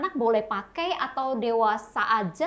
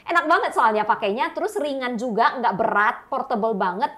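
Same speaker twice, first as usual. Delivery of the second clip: upbeat product pitch; infomercial. Acted. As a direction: rave about it like a TV ad. Host praises product features. (iklan TV yang ceria)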